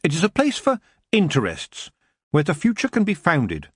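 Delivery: a hint of a girl speaking up to the king; Tiffany explaining what a shed is for. Tiffany voiced.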